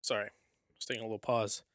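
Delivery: out of breath. Real, not acted. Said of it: "Catching my breath".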